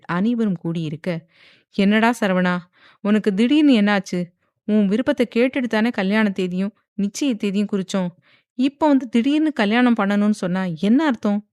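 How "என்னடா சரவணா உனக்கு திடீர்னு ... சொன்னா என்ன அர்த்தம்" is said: louder, demanding anger; an uncle angrily questioning the groom; angry uncle. Acted. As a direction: confront the nephew sharply. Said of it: "கோபமாக கேட்டார் தினேஷ்".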